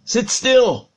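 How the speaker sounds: drawn-out stern parental command. Retold or imitated. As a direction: firmly tell a child to sit still. Acted father commanding his son.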